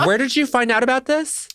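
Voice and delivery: laughing. Real, not acted. Cohost laughs asking where the meth gator story came from, laughing. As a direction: still laughing, ask in disbelief. Laughing question after segment.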